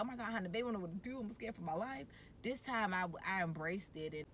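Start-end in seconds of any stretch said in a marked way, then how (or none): 0.0-2.1 fast, a touch higher, half-joking fear; mock scared. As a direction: rush it like a nervous new mom. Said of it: "Then I was like".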